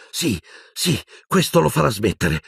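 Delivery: hurried, uneasy lie meant to calm; a boy lies to soothe his teacher, uneasy; false reassurance. A narrator's reading. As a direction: lie to comfort him. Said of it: "mentì Harry".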